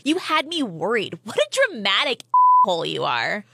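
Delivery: indignant, emphatic telling-off; acted irritated outburst; exasperated scolding. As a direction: play a friend fed up with the drama. Acted friend scolds over false alarm.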